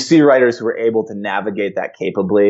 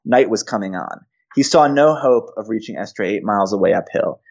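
epic fantasy narrator. Shown as a demonstration. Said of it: "I'm gonna read a little bit from chapter nine".

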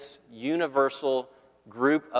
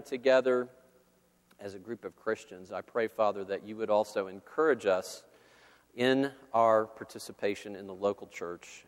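prayer; 2 semitones lower than usual. Acted. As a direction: pray aloud over the congregation. Opening prayer before sermon.

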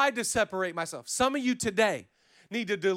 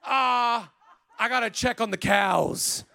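grandpa; 2 semitones higher, slower than usual. Retold or imitated. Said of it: "So Grandpa would be like".

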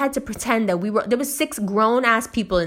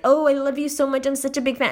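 higher-pitched, fawning mimicry; mock gushing fan; 5 semitones higher, faster than usual. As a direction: imitate a clingy admirer laying it on. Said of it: "slithering on me".

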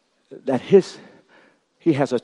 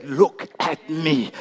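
slow reassurance; much slower than usual. Acted. God speaking, slow.

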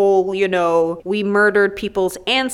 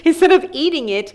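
excited reread; 7 semitones higher, 3 dB louder, faster than usual. Shown as a demonstration. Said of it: "No, she didn't".

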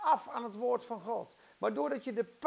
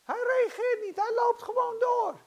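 high, loud dramatized outburst; heated storytelling at full voice; exasperated shout; 10 semitones higher, 6 dB louder than usual. Retold or imitated. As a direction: cry it out in disbelief. Dramatizes Jesus ignoring the mother.

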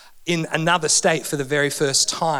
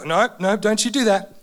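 mum's warning. Retold or imitated. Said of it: "mum would go".

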